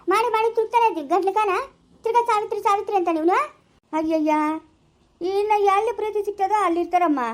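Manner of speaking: exasperated. Acted. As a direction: vent that you're worn out.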